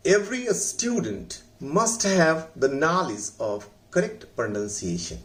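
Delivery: every student must have... read very slowly; slow dictation reading. Shown as a demonstration. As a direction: read the sentence word by word for the class. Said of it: "उसमें मैंने लिखा है". (धीमी गति से पढ़ना)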